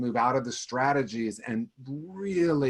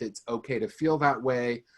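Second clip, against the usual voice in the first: gentle self-reassurance. Shown as a demonstration. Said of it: "a process that's an inner child process that starts with".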